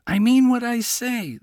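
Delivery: lightly voiced fox standing his ground; insisting. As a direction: fox pressing Miko seriously. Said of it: "the fox insisted".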